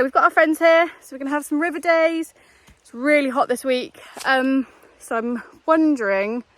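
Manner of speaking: slightly out of breath while walking. Real, not acted. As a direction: talk between breaths, a bit winded. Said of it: "sorry, I'm out of breath".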